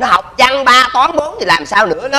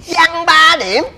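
shocked repeat; 7 semitones higher, much slower than usual. Acted. Father repeating bad grade.

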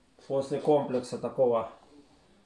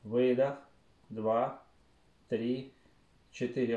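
slow breath counting; slower than usual. Shown as a demonstration. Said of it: "Давайте вместе".

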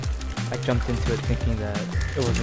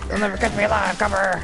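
higher put-on voice; mock-defiant fugitive; 5 semitones higher, faster than usual. Player dodging shots, mock-defiant fugitive. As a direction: play a hammed-up outlaw on the run.

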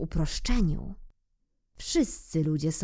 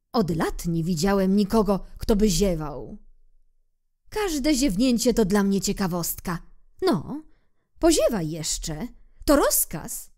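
eager king; 3 semitones higher than usual. Acted. King orders more yawns.

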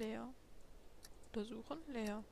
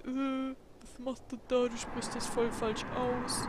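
mock scolding; 3 dB louder, slower than usual. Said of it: "Nicht, dass noch kommt".

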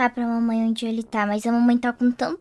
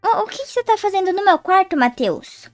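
angry demand; 6 semitones higher than usual. Acted. Sister repeats angry question.

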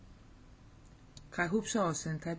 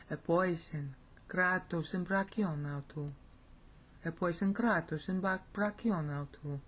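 steady beat through the Greek; rhythmic Greek reading. Shown as a demonstration. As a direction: recite it so the cadence shows. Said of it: "See the cadence?".

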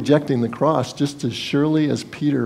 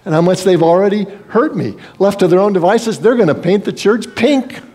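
higher, mounting mock protest; exasperated complaint; 5 semitones higher than usual. Believer protesting to the Lord about church people, exasperated. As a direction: complain with rising exasperation, pitched up.

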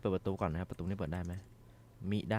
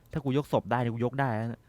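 loud bravado; 3 semitones higher, 6 dB louder than usual. Real, not acted. Boasting at monster.

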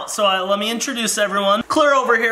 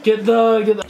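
talking through a mouthful of food; words round a bite; mouth full; 2 semitones higher, 4 dB louder than usual. Real, not acted. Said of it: "I shouldn't be talking with my mouth full".

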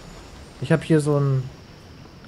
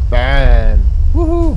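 excited cheer; 2 semitones lower, 12 dB louder, much slower than usual. Real, not acted. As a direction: celebrate the hit. Hits the button.

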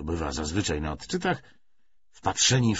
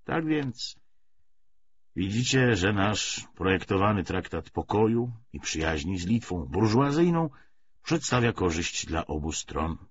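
measured lecture with emphatic surges; lightly voiced party orator; 4 semitones higher, 5 dB louder than usual. Commissar justifies the treaty to comrades, mildly oratorical. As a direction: argue the policy point by point.

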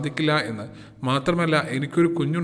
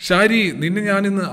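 screaming out; 4 semitones higher, 4 dB louder than usual. Acted. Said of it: "അവൻ അലറി വിളിച്ചു".

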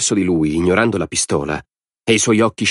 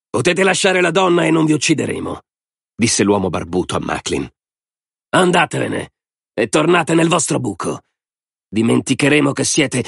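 high-pitched, threatening bearded man; high voice issuing terms to intruders; bearded man giving orders; 6 semitones higher than usual. Acted. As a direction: raise the pitch and order them off.

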